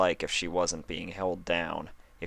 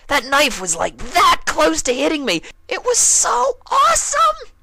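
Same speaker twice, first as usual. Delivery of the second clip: thrilled; 11 dB louder than usual. Acted. Dash gushes to Applejack after the knife, loud and thrilled. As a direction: drag it out with thrill.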